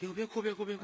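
high, soft cooing voice; soothing a baby. Acted. Mother on the bus to her crying baby, soothing. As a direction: hush a crying child, light and high.

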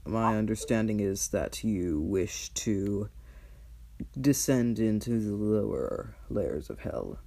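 lightly voiced cold archdevil; dragon voice. Mammon states his deal.

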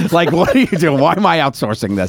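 can't believe anyone pays for this; exasperated rant. Real, not acted.

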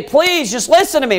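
high, pleading appeal; begging. Acted. Brothers begging the governor to listen, pleading. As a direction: beg to be heard. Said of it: "they're trying to beg him".

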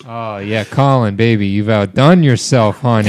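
silly put-on accent for man-bun Colin. Playing man-bun Colin being flattered, in a put-on accent. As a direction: coo teasingly in a put-on accent. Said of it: "What is that accent you're doing".

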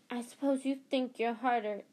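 mild angry scolding from a strict teacher; storming. Acted. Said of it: "she stormed".

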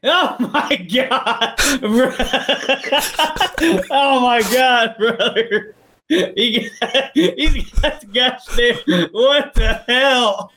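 breathless giggling disbelief; laughing helplessly. Real, not acted. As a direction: laugh through the words, overwhelmed. Being tickled under there.

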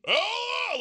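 gasp, then a very high drawn-out "Oh!"; retold alarmed yell. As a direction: re-enact a parent's panicked cry. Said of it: "I did the full, like, all three names".

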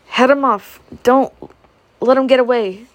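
soldiers yelling across the yard; loud cries. A narrator's reading. Soldiers in the yard shouting to head off the animals, loud cries. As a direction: shout it out, calling to the others. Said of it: "From the yard came loud cries".

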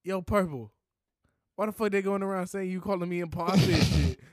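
put-on Baltimore accent. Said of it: "What the fuck is the Baltimore one? He's like".

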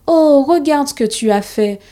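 high, dismayed outcry; crying out. Acted. Boy crying out to his father over crushed toys. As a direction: call out in shock at the wreck. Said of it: "cria Thomas".

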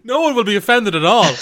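said through laughter; laughing. Real, not acted. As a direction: laugh while talking. Host laughing at accent joke.

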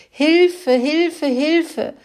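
high, loud panicked squeal; grunting squealing cry. Acted. Pig calling the farm for help, loud high squeals. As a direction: shriek it out, piglet in panic. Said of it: "grunzte und quiekte er".

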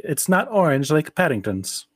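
mild imitation of a child objecting; complaining child. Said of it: "and they're like".

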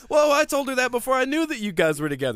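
high-pitched, mildly indignant retelling; pissed off. Retold or imitated. Boyfriend protesting about the couple, mock pissed off. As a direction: act out a defensive protest. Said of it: "J B Smooth's pissed off".

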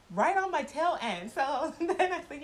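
real amusement breaking into the words; laughing. Real, not acted. Telling how he tailed her closely, laughing.

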